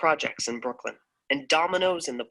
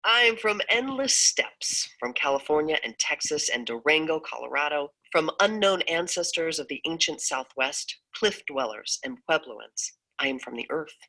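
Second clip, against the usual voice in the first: poem reading; 2 semitones higher than usual. Acted. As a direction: read with reverence for the land.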